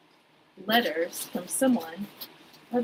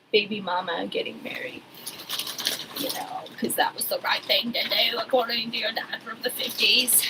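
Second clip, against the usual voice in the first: hushed, conspiratorial whisper; sly whispered jab; whispered aside; 4 dB quieter than usual. Real, not acted. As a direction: drop to a whisper for the gossip. Snarky aside about the wedding.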